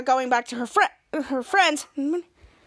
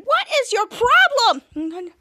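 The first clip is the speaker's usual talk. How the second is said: higher, drawn-out complaint; mock exasperation; 6 semitones higher, 4 dB louder, much slower than usual. Mika confronting the adult, mock exasperation. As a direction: draw out an exasperated question, slightly louder. Acted annoyed quote in show recap.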